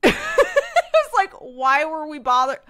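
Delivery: high laughing disbelief. Real, not acted. Remembering dad ditching the movie, laughing.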